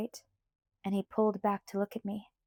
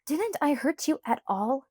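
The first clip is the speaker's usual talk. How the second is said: furious; 5 semitones higher than usual. Acted. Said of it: "furious and annoyed".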